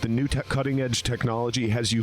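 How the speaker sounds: upbeat sponsor read, mostly his own voice. Acted. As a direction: sell the product like a host-read ad. Reading sponsor ad copy.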